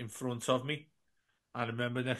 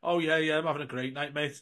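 louder, upbeat yeah yeah; friendly reply; 3 semitones higher, 4 dB louder than usual. Retold or imitated. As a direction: answer warmly and openly, no hushing. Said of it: "And he went".

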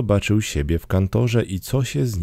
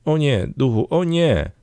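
high, protesting exclamation; pleading cry; 7 semitones higher than usual. A narrator's reading. Scrooge protests to the pointing ghost, high pleading cry. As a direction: cry out in high-pitched dread, without shouting. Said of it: "zawołał Scrooge".

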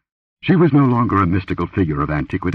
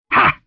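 short satisfied "ha"; satisfied grunt; 5 dB louder than usual. A narrator's reading. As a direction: grunt like a hunting lion. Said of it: "like the satisfied grunt of a hunting lion".

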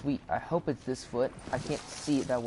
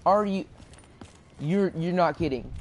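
can't believe what just happened; shocked laughter; 6 semitones higher than usual. Real, not acted. Player downed, disbelief.

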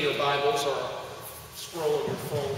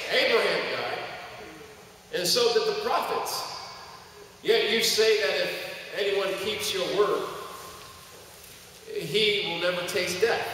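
preaching scripture reading; 2 semitones higher than usual. Acted. Pastor reading John to the church, preaching voice. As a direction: proclaim the text to the church.

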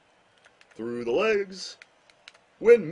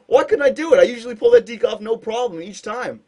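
frustrated; 6 semitones higher, 5 dB louder than usual. Real, not acted. Frustrated after failed deke.

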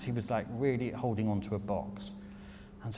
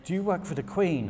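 higher and louder, awestruck; starstruck American; 8 semitones higher, 4 dB louder than usual. Retold or imitated. American couple quizzing the Brit about royalty, high awestruck. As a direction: ham up the starstruck fan. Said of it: "And they're like".

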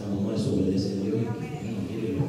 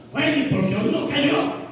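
much higher, mock-confused whine; mocking puzzled crowd. The stubborn people ask why no manna fell, high mock whine. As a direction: squeak it like a clueless complainer.

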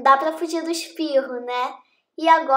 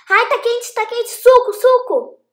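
mouth full of hot food; 8 semitones higher, 6 dB louder than usual. Real, not acted. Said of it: "Quase queimei minha".

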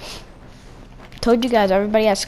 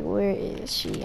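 slow searching; 6 dB quieter, much slower than usual. Retold or imitated. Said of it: "Okay, I'm like".

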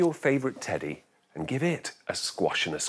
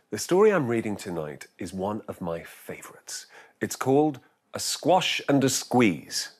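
whispering. Acted. Whispered intro.

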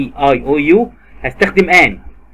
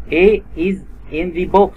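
slow model sentence; 3 semitones higher, much slower than usual. Shown as a demonstration. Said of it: "model sentence".

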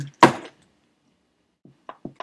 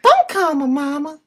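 higher and louder, insistent; louder high put-on voice; 11 semitones higher, 4 dB louder than usual. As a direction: push it up and louder. Repeated louder.

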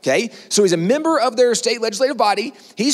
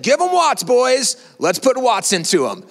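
rally the men, lightly acted; rallying cry; 2 semitones higher, slower than usual. Reverend rallying his men in battle.

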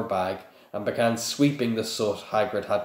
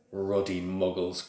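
growled; 4 dB quieter than usual. Acted. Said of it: "growled Hagrid".

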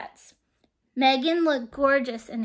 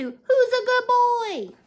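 high, loud and slow; doting high sing-song praise; proud doting voice; 9 semitones higher, 4 dB louder, slower than usual. Acted. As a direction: coo it like a proud owner. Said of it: "which translates to".

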